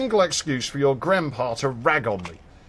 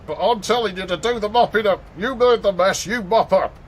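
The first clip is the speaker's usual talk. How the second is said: stern mum; 6 semitones higher than usual. Retold or imitated. Mum voiced in retold story.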